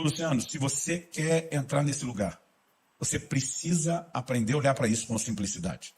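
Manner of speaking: soft, low, measured mentor; patient advice. Retold or imitated. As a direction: counsel him quietly and slowly. Pastor patiently advises the young man.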